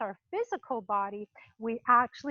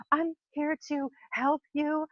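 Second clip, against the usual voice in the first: sweet mock greeting. Visitor greeting the animal too sweetly, a light syrupy imitation. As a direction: say "I'm here to help you" as a syrupy nice person. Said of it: "the words coming out of your mouth".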